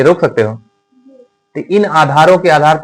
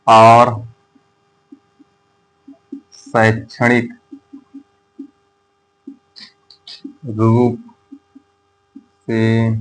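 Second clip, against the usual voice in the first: slow, spaced-out words for note-taking; teacher dictating to students word by word; word-by-word dictation; much slower than usual. Shown as a demonstration. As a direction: dictate each word with long gaps. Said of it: "अब यहाँ पे आप अपनी भाषा में लिख दें".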